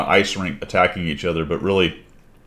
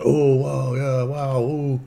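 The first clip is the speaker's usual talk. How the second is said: imitating gasping fans, higher; high mock oohs of wonder; mock amazement; 7 semitones higher, much slower than usual. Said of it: "you're seeing a lot of people going".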